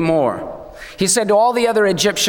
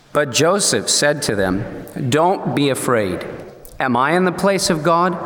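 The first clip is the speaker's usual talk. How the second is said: scripture reading; 4 semitones lower than usual. Shown as a demonstration. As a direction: read it like holy text, weighty and measured. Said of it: "Let's read it out loud".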